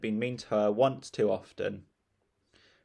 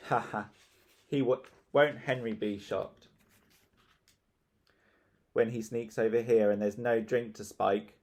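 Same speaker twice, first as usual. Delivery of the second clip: gloating. Acted. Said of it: "gloated Margaret".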